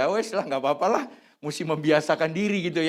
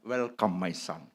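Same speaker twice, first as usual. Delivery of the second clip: soft, gentle welcome to the son-in-law; quiet, heartfelt welcome in English; tender welcome; 8 semitones lower, 6 dB quieter than usual. Retold or imitated. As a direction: say it softly like an embrace. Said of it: "saya berkata".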